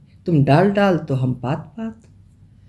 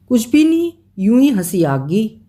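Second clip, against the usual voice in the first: queen laughing it off; 5 semitones higher than usual. Acted. Queen brushing off the king's question, airy and high. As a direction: wave the question away lightly.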